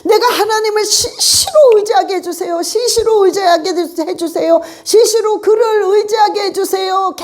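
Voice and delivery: fervent repeated prayer; repeated declaration. Shown as a demonstration. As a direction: repeat the phrase again and again, pressing 시시로. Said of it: "계속 반복하는 거야".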